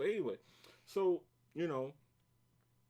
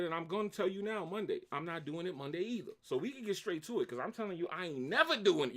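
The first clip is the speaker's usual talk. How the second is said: popping off; 3 semitones higher than usual. Retold or imitated. Worker refuses boss's Monday talk, starting to pop off. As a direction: dig in, getting more worked up. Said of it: "I popped off. I went crazy".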